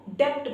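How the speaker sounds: डेप्ट said with the b sounded, as debt wrongly spoken. Shown as a demonstration. Teacher showing students the wrong डेप्ट with b. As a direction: say डेप्ट voicing the silent b before the t. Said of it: "जो कि wrong है".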